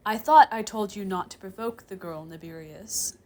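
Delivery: solemn reproach, dropping off at the name. Acted. Chair demon reproaching the professor in private, solemn. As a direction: admonish gravely. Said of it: "he says solemnly".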